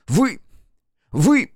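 high, rising angry outburst; boy confronting the rival, high and loud; furious boy. Acted. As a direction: spit it at him in rage. Mel furiously confronts Crow.

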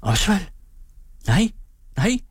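a startled, rising cry of his name; mother stunned by her son's confession, crying out his name with a sharp rise; almost speechless. Acted. Stunned cry of her son's name. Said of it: "Fru Alving næsten målløs".

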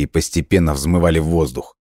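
usual speaking voice

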